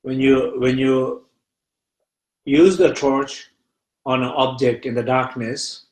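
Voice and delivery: unhurried meditation teacher with long pauses; guided meditation. Real, not acted. Teacher guiding listeners to feel fear in the body, meditative.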